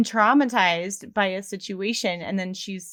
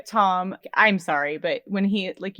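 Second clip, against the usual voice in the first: usual speaking voice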